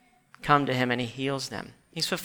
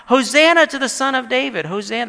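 raised, high shout easing off; screaming out; 8 semitones higher, 6 dB louder, faster than usual. Acted. Preacher imitating children crying out to Jesus, high shout. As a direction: call it out as acclaiming children. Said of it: "they're screaming out".

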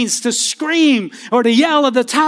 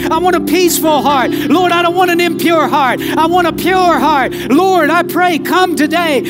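raised, fervent prayer voice with repeated pleas; leading prayer; 2 semitones higher than usual. Acted. Pastor leading the church in prayer, fervent pleading. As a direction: pour the heart out to God before the church.

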